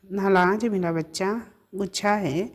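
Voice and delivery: put-on lightly lisped baby talk, नालाज with l for r and गुच्छा for गुस्सा; cooing baby talk. A narrator's reading. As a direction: coo it like to a sulking child, lisping the r and s. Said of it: "दुलार कर तुतलाते हुए कहा". (दुलार से तुतलाते हुए, "नालाज" और "गुच्छा")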